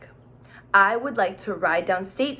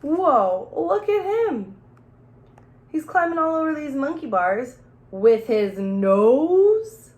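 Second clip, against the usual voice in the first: slow, louder, wide-eyed amazement; amazed townsfolk; 3 semitones higher, 4 dB louder, slower than usual. Acted. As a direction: marvel at the kid, drawn out. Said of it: "everyone in town would say".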